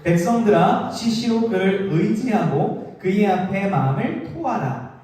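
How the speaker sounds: slow, measured reading of the psalm; solemn unison Bible recital; scripture reading. Shown as a demonstration. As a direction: read it out slowly together. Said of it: "팔 절과 십 절 시작!".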